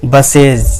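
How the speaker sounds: बसेज drawn out slowly, ending in a voiced "iz". Shown as a demonstration. Teacher showing the plural of bus, slow with voiced iz ending. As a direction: say बसेज slowly with a z/j sound at the end. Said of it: "जो के तरह".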